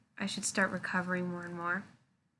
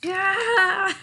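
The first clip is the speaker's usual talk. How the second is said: big excited shout; triumphant yell; 11 semitones higher, 10 dB louder than usual. Pretend. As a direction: cheer loud and high. Triumphant toy sword cry.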